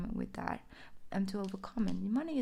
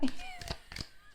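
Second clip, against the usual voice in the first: high laugh; 4 dB quieter than usual. Real, not acted. Laughs at her own joke.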